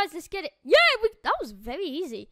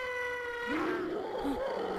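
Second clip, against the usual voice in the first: long, soft high-pitched gasp; drawn-out intake of breath; 7 semitones higher, 8 dB quieter than usual. Real, not acted. Fleeing the monster.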